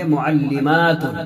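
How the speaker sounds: معلماتن with long aa, then t and n ending; long a, voiced ta. Shown as a demonstration. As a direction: stretch the aa in معلماتن and sound the ta. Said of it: "الف اور لمبی تا جوڑ کر کے پڑھیں گے". (معلماتن میں لمبا الف اور تا کی آواز)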